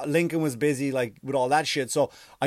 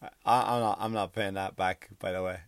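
Speedy Gonzalez aside; 6 semitones lower, 5 dB quieter than usual. Retold or imitated. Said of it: "Speedy Gonzalez just went".

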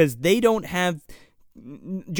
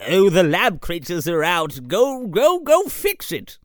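put-on flustered old mage. Old mage ordering the librarian to fix it, comic fluster. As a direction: send her off in mock fluster, pitch rising.

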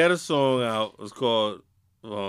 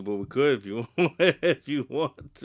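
laughing; 3 dB louder than usual. Real, not acted. Teasing offer, laughing mid-line.

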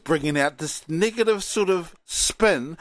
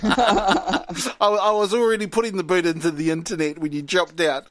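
real amused laughter through the words; laughing while talking. Real, not acted. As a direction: tease him through a laugh. Teasing co-host who had dropped out.

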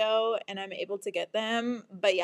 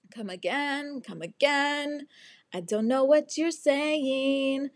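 higher, drawn-out sing-song confusion; acted bewilderment; 5 semitones higher, slower than usual. Girl to roadside guy about lock nut key, bewildered. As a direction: stretch the words, playing clueless.

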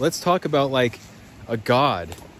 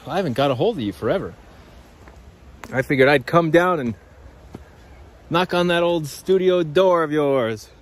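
friendly visitor; 2 semitones higher than usual. Retold or imitated. Friend greets him at the studio, imitated friendly visitor. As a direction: imitate a pal dropping by. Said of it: "someone who's like".

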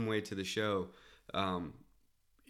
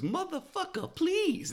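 high mock drunk heckler yell; high, loud imitation of a heckler; heckler shout; 3 dB louder, slower than usual. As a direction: bellow it like the drunk in the crowd. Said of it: "what he kept shouting out".

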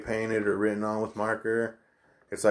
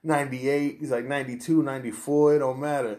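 impression of New York guy; 2 semitones higher than usual. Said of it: "I love your impression".

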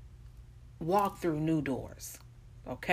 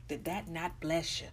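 ordinary talk, nothing marked

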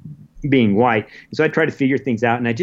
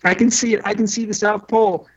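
much higher, half-sobbing retelling; retold bawling; 10 semitones higher than usual. Explorer calling his wife from Antarctica, imitating his own bawling. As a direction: relive the tearful moment, pitched way up. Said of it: "And I'm just bawling".

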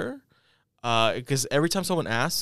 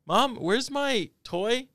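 yelling across the room; 12 semitones higher, much slower than usual. Retold or imitated. Calling to mom across house.

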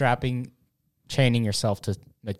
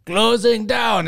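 put-on high, loud, slow Russian accent; mock Russian accent; 10 semitones higher, 6 dB louder, slower than usual. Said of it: "say it in a Russian accent".

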